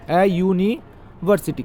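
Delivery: ए यूनिवर्सिटी drawn out slowly, each sound clear; slow demo. Shown as a demonstration. Teacher slowly models ए यूनिवर्सिटी for students. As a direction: spell out ए यूनिवर्सिटी slowly for the class. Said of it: "क्यों होगा ए इसके पहले?".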